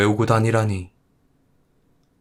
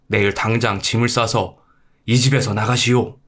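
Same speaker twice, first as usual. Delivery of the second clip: angry husband. Acted. Husband ordering his wife out of the house, angry. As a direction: throw her out in fed-up anger.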